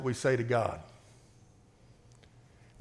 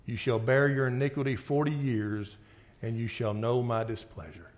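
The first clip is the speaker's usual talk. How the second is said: scripture reading; 3 semitones lower than usual. Acted. Preacher reading God's judgment to the congregation, grave reading voice.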